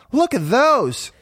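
high, drawn-out delight; delighted cry. A narrator's reading. Marie seeing jeweled cat collars, delighted. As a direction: marvel at them, high and slow. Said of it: "she cried out delightedly".

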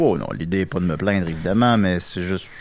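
muffled behind a face mask; through a face mask. Real, not acted. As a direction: talk through a cloth mask. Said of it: "avec un masque sur le visage".

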